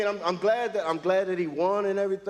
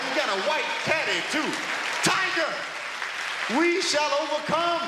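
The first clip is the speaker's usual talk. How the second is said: higher, rising to a joyful proud cheer; ecstatic cheering; 11 semitones higher than usual. Retold or imitated. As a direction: call out to Tiger like a proud fan in heaven. Cheering Tiger from the couch.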